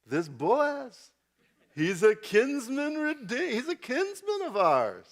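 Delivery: put-on scheming Jewish mother, slow and high, Jewish accent; high, drawn-out Jewish accent, sly; Jewish woman accent. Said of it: "please have your best Jewish female voice".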